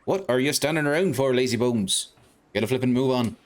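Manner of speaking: a hint of a cocky little lantern-nosed fairy; cheeky fairy sidekick. Fairy sidekick greeting the boy in the street, chirpy.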